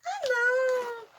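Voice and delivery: loud, high cry of surprise; a sudden, startled loud outburst; surprised shout. Real, not acted. Finds the missing bottle.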